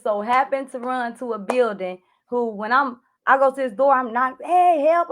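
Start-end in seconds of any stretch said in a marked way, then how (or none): 4.4-5.1 raised, higher call for help; retelling a frantic shout for help, not full force; a mock yell of hey, help. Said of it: "I'm at scream for help".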